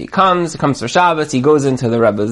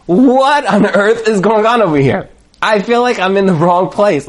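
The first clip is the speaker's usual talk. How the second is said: raised-pitch, exasperated questioning; baffled protest; 5 semitones higher than usual. Retold or imitated. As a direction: demand an explanation in bewilderment. Baffled guest confronts the Rebbe.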